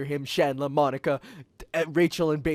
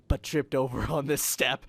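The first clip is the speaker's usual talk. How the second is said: usual speaking voice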